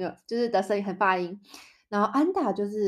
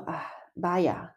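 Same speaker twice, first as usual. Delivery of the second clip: sighing vaya. Shown as a demonstration. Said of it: "当你觉得很叹息的时候".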